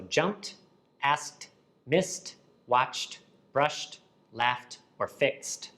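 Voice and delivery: "jumped, asked, missed, watched" ending in crisp "t". Shown as a demonstration. Teacher lists voiceless examples, each ending sounded as "t". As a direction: end each word, "jumped" to "fixed", on voiceless "t". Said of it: "we add t to the end".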